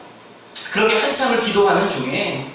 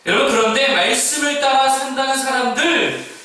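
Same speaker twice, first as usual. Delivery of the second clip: higher and louder, hammering each charge home; full-force preaching; 9 semitones higher, 6 dB louder, slower than usual. Acted. Pastor rebuking the church's insiders, full-force preaching. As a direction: preach it hard, word by word.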